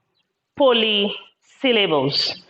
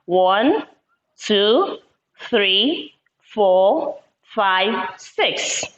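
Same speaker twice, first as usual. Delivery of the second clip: counting aloud; 3 semitones lower, much slower than usual. Shown as a demonstration. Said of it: "Let's count".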